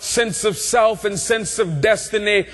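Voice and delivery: rhythmic preaching building to a cried-out peak; preacher in full flow, stretching key words; impassioned preaching. Real, not acted. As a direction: hammer each repeated phrase, rising in fervor.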